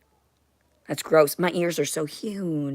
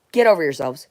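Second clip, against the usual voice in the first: louder, fed-up brush-off; sharp dismissal; 6 dB louder than usual. Real, not acted. To the spacecraft beings, a louder fed-up brush-off. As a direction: push them off, annoyed.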